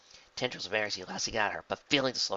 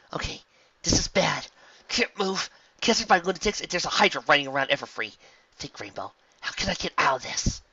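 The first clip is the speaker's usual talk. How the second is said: high, loud anxious hero voice; trapped and thinking fast; panicked heroine; 7 semitones higher, 6 dB louder than usual. A narrator's reading.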